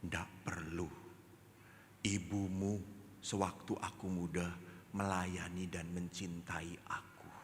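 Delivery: devoted father. Acted. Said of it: "Apa ayah katakan?".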